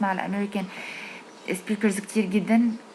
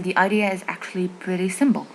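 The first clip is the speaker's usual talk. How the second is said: slow, careful repeat of the English line; slow quoted line; slower than usual. Shown as a demonstration. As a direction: say it slowly to model it. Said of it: "قال". (ترديد الجملة ببطء)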